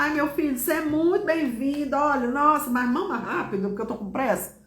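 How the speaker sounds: hint of nervous impatience; mock stressed mother. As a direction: act a mildly harried mum hurrying her baby. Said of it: "preocupada, nervosa, chateada, você fala".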